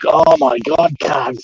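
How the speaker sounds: high-pitched excited greeting, retold; mock-elated, pitched right up; imitating overjoyed cousin. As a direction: gush like a cousin just set free. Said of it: "He comes running out and he's like".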